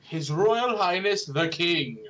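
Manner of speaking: haughty announcer voice; snooty royal voice. Acted. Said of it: "super snooty, snobby voice".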